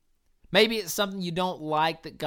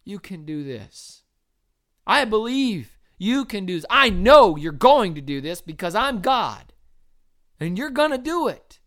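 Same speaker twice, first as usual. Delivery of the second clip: encouraging God; 3 semitones higher, 8 dB louder than usual. Retold or imitated. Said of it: "God is saying to us".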